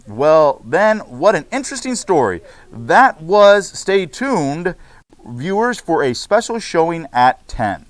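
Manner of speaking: bright, announcing host read; news anchor. Acted. Teacher reads class news script to students, anchor style. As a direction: open the broadcast like a TV host.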